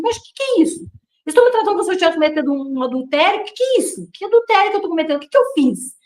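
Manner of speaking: high, fast, indignant disbelief; retold indignant outburst. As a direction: relive the outrage at being accused. Retold outburst at elders' humiliation.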